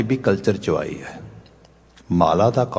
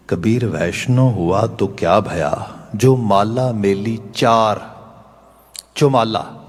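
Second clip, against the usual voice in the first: slow, louder chanted verse recital; a devout recital, each word held; reciting scripture; 4 dB louder, slower than usual. Shown as a demonstration. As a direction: intone the verse with weight, drawn out. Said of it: "ਬਾਬਾ ਕਬੀਰ ਜੀ ਦੇ ਬਚਨਾਂ ਨੂੰ ਪੜ੍ਹਦੇ ਹਾਂ".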